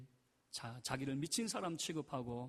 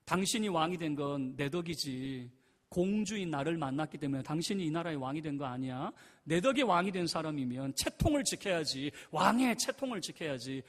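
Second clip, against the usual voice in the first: a touch of a proud princess scolding, a bit louder; mild snapping; 5 dB louder than usual. Retold or imitated. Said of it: "이렇게 쏘아붙이니까". (공주가 남편을 가볍게 쏘아붙이듯)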